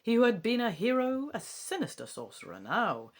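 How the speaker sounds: lightly put-on English accent reciting verse; attempted English accent. Bard reciting lines fed by Faye, in a tentative English accent. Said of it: "I'll try putting on a wee English accent".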